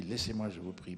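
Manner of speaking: mild, gentle Alceste, no anger at all. Retold or imitated. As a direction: say it kindly, as if asking a friend. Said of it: "je joue ça comme ça, gentiment".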